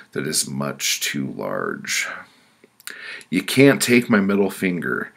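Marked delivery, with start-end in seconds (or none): 3.3-5.1 loud, high objection; urgent plea, voice raised; protesting. Acted. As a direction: object desperately to the judge. Victim protests losing middle finger.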